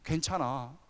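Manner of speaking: low, tender reassurance; gently reassure, low and unhurried; comforting father. Retold or imitated. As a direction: soothe a hurting child, voice dropped. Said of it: "아버지처럼 쌓아놔주면서".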